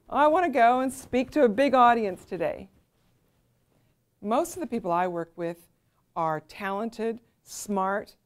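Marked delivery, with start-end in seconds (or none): 0.1-2.7 louder, hammed-up eager voice; mock eagerness. Mocking a client who loves speaking, hammed-up eagerness. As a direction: play the keen speaker for a laugh. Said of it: "don't wake up in the morning and go".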